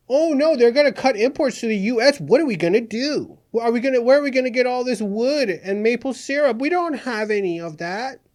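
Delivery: sarcastic anchor faking dread about losing maple syrup, mock alarm; mock panic. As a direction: pretend to panic, dripping sarcasm. Mock panic over Canadian imports.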